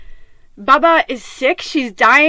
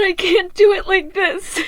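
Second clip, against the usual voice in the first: crying; 5 semitones higher than usual. Real, not acted. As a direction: voice breaking, close to tears. Crying while recounting breakdown.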